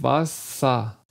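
WASSER with a relaxed A-like final sound; relaxed word ending. Shown as a demonstration. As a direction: let the end of WASSER relax, no R. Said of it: "entspannt sie sich".

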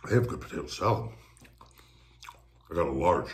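speaking between bites; talking while chewing. Real, not acted. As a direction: mouth partly full of food. Seen 3: spoon of salad into mouth at 1.4, chewing, cup shown.

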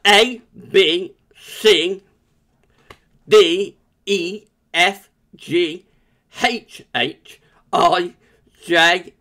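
reciting the alphabet with a swollen tongue; letters slurred after tongue surgery, S worst. Real, not acted. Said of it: "I'm gonna go through the alphabet and you can hear".

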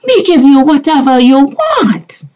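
mock pleading. Hammed-up pleading in broken speech.

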